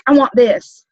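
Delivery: mock hurried shopper. Shown as a demonstration. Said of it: "and you're like".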